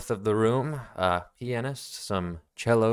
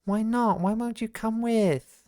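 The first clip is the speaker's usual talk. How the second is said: put-on very high childish pleading; whiny child; 12 semitones higher than usual. Little brother pleading with his brother, high and whiny. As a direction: beg like a small boy.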